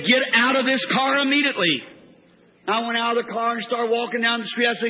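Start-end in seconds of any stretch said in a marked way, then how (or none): 0.1-1.8 firm, insistent order; commanding voice. Retold or imitated. A heard voice orders the preacher out of the car, insistent command. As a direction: re-enact an urgent command, driving it through to the end. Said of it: "I heard a voice say".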